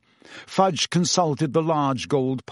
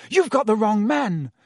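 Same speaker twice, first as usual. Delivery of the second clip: mild yell, pitched up; yelled protest; 9 semitones higher, 4 dB louder than usual. A narrator's reading. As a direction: insist urgently in a contained yell. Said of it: "Harry yelled".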